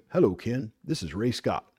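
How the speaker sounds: a hint of a deep older Southern man on the phone; lightly dropped voice, self-admittedly bad impression; Ray Scott impression. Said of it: "That's a terrible Ray Scott impersonation".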